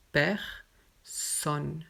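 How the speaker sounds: personne with the final E silent, said pɛʁsɔn. Shown as a demonstration. Teacher modelling personne for students, final e silent. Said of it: "On ne dit pas personne, non, juste personne".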